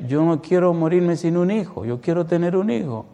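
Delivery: high-pitched imitation of a crying husband; retold tearful plea. Preacher retells a husband longing for a child, mock tearful plea. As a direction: plead as if through tears, lightly acted. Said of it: "Y él llorando decía".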